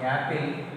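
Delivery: "apple" starting on a y sound. Shown as a demonstration. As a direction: say "apple" like "yapple". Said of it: "ya sound".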